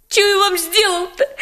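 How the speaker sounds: pleading through tears, voice cracking; tearful plea. Acted. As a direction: beg her to stop, near crying. Boy pleading under interrogation.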